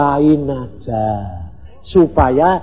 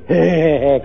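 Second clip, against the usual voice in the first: teasing chuckle. Retold or imitated. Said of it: "ketawa deh".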